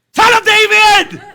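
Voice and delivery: long, high full-force shout; high, desperate yell for attention. Acted. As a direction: cry it out loudly, drawing out each word. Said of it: "he shouted all the more".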